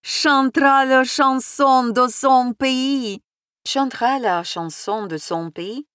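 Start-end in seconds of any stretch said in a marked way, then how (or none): 0.0-3.2 loud, high, slow announcer call; announcing. A narrator's reading. Senechka announcing the singer to the guests, loud proclamation. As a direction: proclaim it like a host. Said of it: "возгласил".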